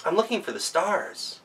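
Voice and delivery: lightly voiced girl calling. A narrator's reading. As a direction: call out brightly like a young girl. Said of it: "she called out to the elves".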